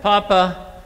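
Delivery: put-on child voice. Great-grandson asking Papa for homework help, high and eager. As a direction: play the boy pleading with his great-grandpa.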